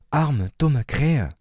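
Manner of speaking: hohe, sehr langsame Kinderstimme voller Mitleid; mitleidiger kleiner Bruder. Acted. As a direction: bedauernd gedehnt wie ein Kind. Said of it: "murmelte Leo neben mir mitleidig". (mitleidige, hohe Kinderstimme)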